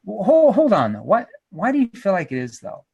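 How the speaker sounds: halting, unconvinced question; skeptical. Shown as a demonstration. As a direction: pull them up short, then probe doubtfully. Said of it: "I'm skeptical".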